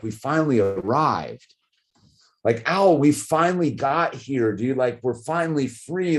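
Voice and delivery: baffled pleading. Retold or imitated. Parent asking son why he's angry after the move, baffled. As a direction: reenact a parent's bewildered appeal.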